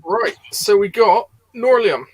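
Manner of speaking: slurred, struggling with the name; tongue half numb, words fumbled. Real, not acted. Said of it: "Half my tongue is numb".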